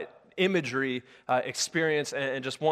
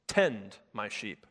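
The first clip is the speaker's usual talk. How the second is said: soft command; 5 semitones lower, 4 dB quieter, slower than usual. Acted. Jesus gives command, voiced.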